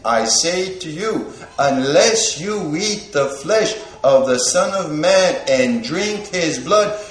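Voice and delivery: scripture reading. Acted. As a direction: proclaim the scripture slowly, word by word. Reads Gospel of John aloud.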